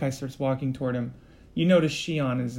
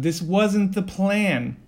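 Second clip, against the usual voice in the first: louder, higher, very slow angry shout; angry yell; 5 semitones higher, 6 dB louder, much slower than usual. Acted. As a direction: yell it at him, each word dragged out. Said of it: "And Malachi yells at".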